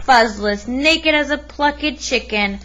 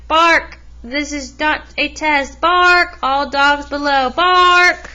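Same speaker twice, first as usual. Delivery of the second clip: warning barks; 2 semitones higher than usual. Acted. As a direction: call out the alarm bark. Big Bark barks a warning.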